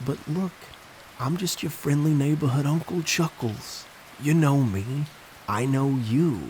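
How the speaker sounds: put-on a falsely friendly clown in a New York accent. Clown sending the boy back to his cake, in a friendly New York accent. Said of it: "in his thick New York accent".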